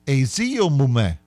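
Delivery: slow Aziyomume; practising Aziyomume; practice. Shown as a demonstration. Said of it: "I think I have it".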